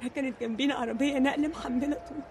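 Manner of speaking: low, very soft telling; subdued traumatic recounting. Acted. Girl recalling a trip with her parents, subdued recounting. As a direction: recount it quietly, in halting pieces.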